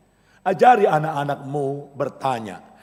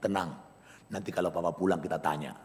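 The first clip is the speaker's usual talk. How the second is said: put-on much softer, calming the boys; soft mother hushing her boys; mother soothing; 9 semitones lower, 10 dB quieter than usual. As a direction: hush them gently like a mother. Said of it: "Mamanya bilang".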